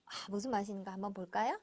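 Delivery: quick unvoiced whisper. Real, not acted. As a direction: lean in and whisper it fast. Whispering with child.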